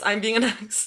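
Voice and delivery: saying it again through a laugh. Real, not acted.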